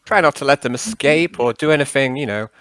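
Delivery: lightly voiced old-chap character; halting, over-polite character request; Nixius, politely wheedling. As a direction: coax a pal into minding the team. Nixius presses Yarn.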